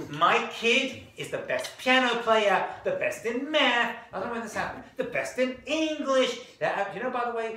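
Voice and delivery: hammed-up bragging about a genius child; boasting parent.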